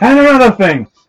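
fake shouting. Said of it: "Can you stop yelling at the listeners".

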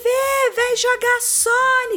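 put-on very high, very slow, drawn-out calling shout. Recalling someone calling them from the gate one Saturday morning; retelling a shout from the gate. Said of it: "me gritando no portão".

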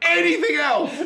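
high, loud, laughing mock yell.

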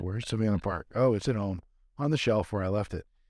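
plain

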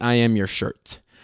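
ordinary talk, nothing marked

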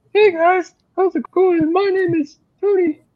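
squeaky, very high guy voice. Imitating guys who have a squeaky voice: squeaky voice. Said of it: "they have like the squeaky voice. Like".

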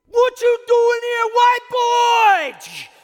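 very loud, very high, slow drawn-out scream. Retelling a man yelling at him while handing out flyers, imitating a man screaming. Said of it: "And he's screaming".

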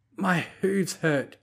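falsetto whisper, smiling. A bride whispering back to her groom beside her; whispered through a falsetto smile. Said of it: "she whispered back through a falsetto smile".

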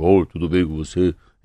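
deep, thick voice, slow pace. Retelling meeting Collor, imitating Collor's deeper voice. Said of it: "Ele fala com a voz mais grossa".

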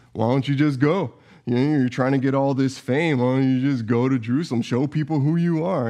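sarcastic, scornful, mocking, goading tone. Retelling a story in which his brothers taunt him, acting out sarcastic mockery. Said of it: "like sarcastically, almost mocking him".

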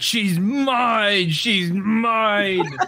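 very slow high scream, "mine" stretched out. Voicing a character who charges an enemy: screaming in character. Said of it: "I'm just screaming out".

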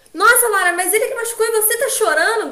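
high, loud shout in sheer disbelief. Retelling what a woman shouted at her crying companion, retelling a shout. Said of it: "Gritando, assim".

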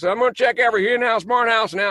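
unpolished, rough, very high character voice. Showing a hard voice that is still being worked on: unpolished Tommy Lee Jones impression. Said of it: "this whole other voice that he talks".

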